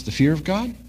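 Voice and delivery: puzzled, rising at God; surprised question. Retold or imitated. Salesman caught off guard by the pastor, puzzled. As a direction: echo it back with a lift on God. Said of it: "He says".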